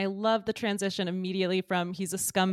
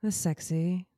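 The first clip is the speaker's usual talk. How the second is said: mock-sultry; 2 semitones lower, 3 dB quieter than usual. Host warms listeners up for a trivia game, mock-sultry. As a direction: tease it out softly, with long pauses.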